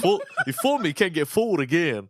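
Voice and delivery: high-pitched southern politician imitation; mock southern quote, voice jumping high; George W. Bush. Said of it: "in his little southern accent".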